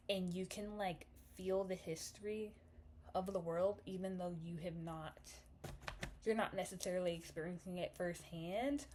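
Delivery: slight lisp from a retainer; talking around a retainer. Real, not acted. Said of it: "Sorry if I'm, like, lisping".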